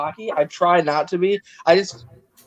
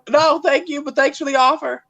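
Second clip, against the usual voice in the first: polite refusal; 8 semitones higher than usual. Acted. Politely declining the imagined offer.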